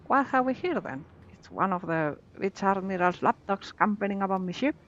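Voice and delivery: lightly voiced pirate accent, gruff; mild pirate accent taunting. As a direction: read it like a sea pirate, a hint only. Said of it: "Love that pirate accent".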